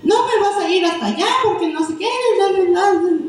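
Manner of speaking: imitando a un padre que regaña, agudo; regaño de padre. Retold or imitated. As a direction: remeda el regaño, rápido al final. (padre regañando al hijo con fastidio)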